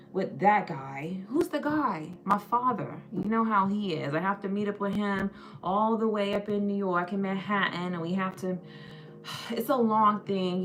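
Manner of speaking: blasé trust fund baby, lightly put on; rich New York guy. Trust fund baby on meeting his father, lightly voiced rich guy. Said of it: "a rich white guy from, like, New York".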